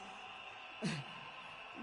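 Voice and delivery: soft airy laugh; a quiet breathy laugh. Real, not acted. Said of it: "I can see you laughing at all of us".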